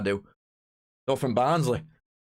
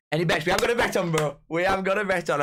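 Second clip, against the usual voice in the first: excited boast; 6 semitones higher, 4 dB louder than usual. Real, not acted. Excitedly announcing his bet.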